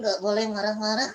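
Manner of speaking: a hint of a cheeky puppet; puppet friend voice. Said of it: "teman Kak Ojan".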